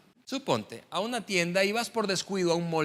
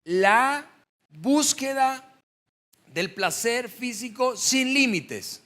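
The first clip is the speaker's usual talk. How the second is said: much louder, higher and very slow, every word pressed; emphatic preaching; 6 semitones higher, 5 dB louder, much slower than usual. Acted. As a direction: stretch it out and pound the point home. Preacher drives home key point. (predicando con énfasis, lento y fuerte)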